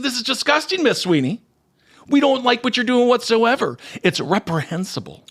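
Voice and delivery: high-pitched put-on indignation; mock outraged critics. Host voicing critics who attacked the actress, mock outrage. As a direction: scold in a hammed-up high voice. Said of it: "And they said".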